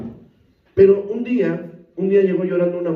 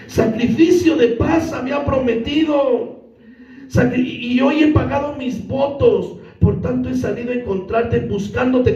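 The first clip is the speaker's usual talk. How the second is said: seductress voice; 6 semitones higher than usual. Acted. Reading seductress's words from Proverbs.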